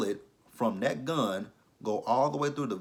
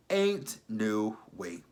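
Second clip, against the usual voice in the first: drawn-out, slow disbelief; slow, incredulous dismissal; emphatic refusal; much slower than usual. Real, not acted. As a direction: stretch each word in refusal.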